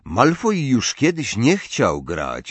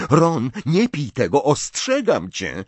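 higher, slightly worried plea; anxious warning; 6 semitones higher than usual. A narrator's reading. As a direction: warn a friend with mild alarm. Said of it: "wyraźnie zaniepokojona".

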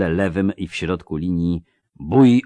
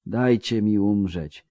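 slowing down; 3 semitones higher, slower than usual. Acted. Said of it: "mówił coraz wolniej pod wpływem magii".

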